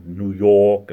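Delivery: "New York" with a loud, broad aw; aw sound. Shown as a demonstration. Showing how locals say "New York", broad aw. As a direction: lean on "York" as YAWK. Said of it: "we do a lot of the aw sounds".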